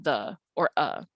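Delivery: "the" and "a" as brief, cut-off schwas; cut-off short vowels. Shown as a demonstration. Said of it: "those are cut off almost".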